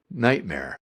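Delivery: ordinary talk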